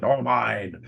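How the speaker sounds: restrained voice from the crowd; agreeing bystander. Acted. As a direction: chime in as one of the dissenters. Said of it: "And others are agreeing".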